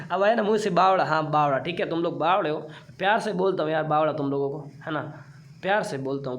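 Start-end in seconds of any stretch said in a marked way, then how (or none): 5.6-6.4 gently reassuring students after teasing; affectionate reassurance. Real, not acted. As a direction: soften it into fond reassurance. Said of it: "प्यार से बोलता हूँ मैं आप लोगों को".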